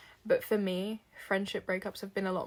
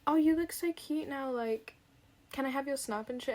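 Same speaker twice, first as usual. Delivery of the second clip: mock flirty guys; 5 semitones higher than usual.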